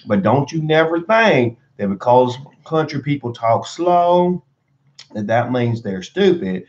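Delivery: put-on thick, slow Southern redneck accent with swooping pitch; country redneck accent. Vlogger defending Southern country folk, in an exaggerated redneck accent. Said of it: "a good accent of a country redneck".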